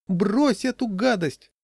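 high, slow, loud command; shout. A narrator's reading. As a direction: shout at the child to stop. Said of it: "закричала жена". (крик высоким голосом)

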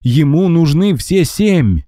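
high, drawn-out ghostly wail; a spirit calling from the mist, slow and high; eerie ghost cry. A narrator's reading. Ghost pleading with Max, high eerie wail.

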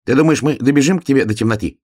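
high, quick little hedgehog voice; a small eager hedgehog, asking. Acted. Hedgehog asks the bear cub while running, high and quick.

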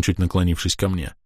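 ordinary delivery, nothing marked

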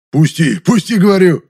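struggling to break free, raging; loud furious shout; ferocious rasp. A narrator's reading. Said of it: "свирепо хрипел Софрон".

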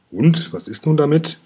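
grandma hurrying the dragon along; impatient. A narrator's reading. Grandma wanting back to her sun lounger, mildly impatient. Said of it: "fragt Oma Aurelia ungeduldig".

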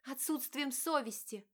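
high, slow cutting answer; wife cutting her husband short, curt; curt retort. Acted. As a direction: cut him off sharply. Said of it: "отрезала Диана".

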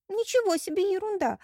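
high, loud, with НИЧЕГО punched; indignant retort. Acted. Bride indignantly echoing her wounded groom, high indignant retort. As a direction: throw his word back at him in outrage. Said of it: "возмутилась та".

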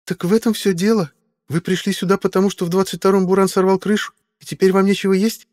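put-on high, startled then suspicious girl's voice; a nervous young woman catching them red-handed; young woman Meadowlark. A narrator's reading. Meadowlark questions Simon about the food cart, high suspicious young woman.

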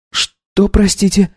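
put-on high young wife voice, taken aback; lifted, incredulous young woman; Katya, startled wife. Wife asks her husband to repeat himself.

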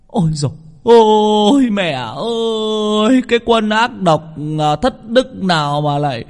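very high, slow, sung-out wailing; keening lament. A narrator's reading. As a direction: drag every cry out like a funeral lament. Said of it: "gào toáng lên".

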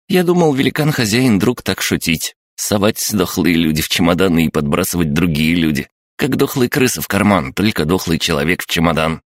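high, chirpy little creature voice; chirping creature. Acted. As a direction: chirp it like an excited gremlin. Crab-gnome explains. (писклявое щебетание крабогнома)

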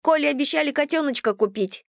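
put-on high, innocent child voice; little girl voice. A narrator's reading. Child Dasha continues.

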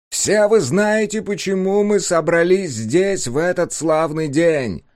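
booming slow public address announcement; loudspeaker voice. A narrator's reading. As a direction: proclaim it through a loudspeaker. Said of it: "прогремел голос из громкоговорителя".

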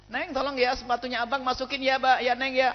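high, gentle request; calm coaxing husband. Acted. Husband calmly asking wife to bring in shoes. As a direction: ask kindly, patiently. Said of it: "ngomongnya kalem".

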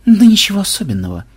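casual brush-off through a smirk. A narrator's reading. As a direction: play it down smugly. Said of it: "ухмыльнулся программист".

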